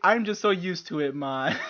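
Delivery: imitated Jamaican accent, easing off. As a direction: explain it in a mock Jamaican accent. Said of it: "he had a thick ass Jamaican accent".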